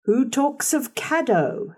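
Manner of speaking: gruffly. A narrator's reading. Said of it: "said he gruffly".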